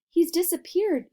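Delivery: high, alarmed yell. A narrator's reading. Mother yelling as her son vanishes, alarmed. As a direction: cry out in alarm. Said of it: "yelled Missus Gloop".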